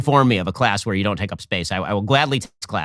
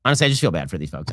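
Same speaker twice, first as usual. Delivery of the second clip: disgusted laughter; 4 semitones lower, faster than usual. Real, not acted.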